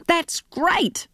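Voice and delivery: a touch of eagerness; mildly enthusiastic. Acted. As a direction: son sounding pleased about his sister's success, understated. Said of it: "sounding enthusiastic".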